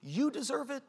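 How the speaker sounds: a hint of flattering pride. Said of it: "pride tells you".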